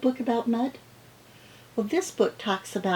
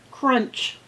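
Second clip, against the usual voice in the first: crunching sound word; 4 semitones higher than usual. Shown as a demonstration. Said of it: "Doesn't that sound like crunching?".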